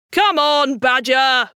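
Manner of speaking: a light call across the bank; mild shout. Acted. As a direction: call out to the badger, cheerfully. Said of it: "shouted the rat".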